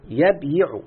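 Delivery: "يبيع" stretched very slowly, each syllable held; drawn-out demo. Shown as a demonstration. Teacher showing the student the present tense, drawn out slowly. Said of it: "أقول له شوف".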